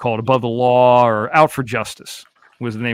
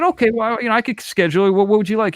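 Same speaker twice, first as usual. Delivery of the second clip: imitating himself on phone; 8 semitones higher than usual. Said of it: "I said".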